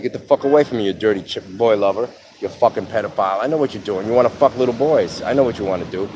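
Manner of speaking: heated mock confrontation; retold angry telling-off. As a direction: re-enact warning someone off, with some force. Retold angry confrontation with suspected predator.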